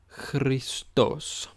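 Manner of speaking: Christos said kris-tos, clear; model pronunciation. Shown as a demonstration. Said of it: "And again".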